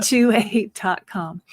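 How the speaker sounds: slow, spaced-out dictation; nice and slow. Real, not acted. Finishing the email address for listeners with a pen, slowly. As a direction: draw out each piece of the address. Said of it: "I'm gonna say it nice and slow".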